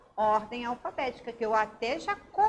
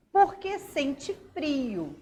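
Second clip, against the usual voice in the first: flat statement; 3 semitones higher, slower than usual. Shown as a demonstration. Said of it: "Tem um ponto final".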